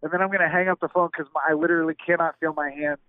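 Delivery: numb lips, slightly slurred words; slurring from the cold. Real, not acted. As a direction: talk through numb, frozen lips. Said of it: "I feel like I'm slurring my words because I can't feel my lip".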